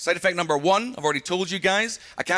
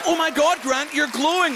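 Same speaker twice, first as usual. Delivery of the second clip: mock alarm; 8 semitones higher than usual. Friends alarmed.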